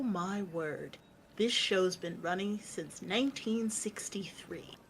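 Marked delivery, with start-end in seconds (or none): 1.4-4.8 hushed whisper. Real, not acted. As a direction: whisper it under your breath. Aside during chat.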